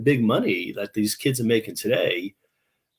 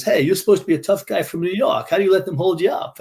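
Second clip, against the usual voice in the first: raised-pitch retold reproach; mock scolding; 8 semitones higher than usual. Gas station owner to his robbed employee, scolding. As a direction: imitate an incredulous boss telling you off.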